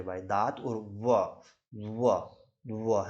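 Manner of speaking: व said slowly, teeth on lip; v demo. Shown as a demonstration. Teacher demonstrating व for students. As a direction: repeat व gently. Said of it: "व का जो उच्चारण है वो दांत और होठ से".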